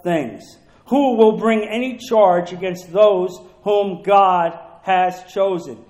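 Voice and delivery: slow, measured Bible reading; solemnly paced pulpit reading; scripture reading. Acted. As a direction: read the verse out deliberately, phrase by phrase. Reads scripture aloud.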